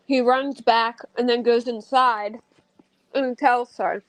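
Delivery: talking round candy; words round a sweet in the mouth; mouth full. Real, not acted. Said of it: "I have candy in my mouth".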